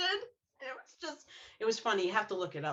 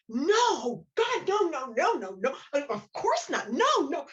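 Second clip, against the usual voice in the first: higher, louder flurry of no's; flustered denial; 4 semitones higher, 4 dB louder than usual. Retold or imitated. Rose insisting she never saw her father, flustered and higher. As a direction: deny it in a nervous rush. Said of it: "And Rose is like".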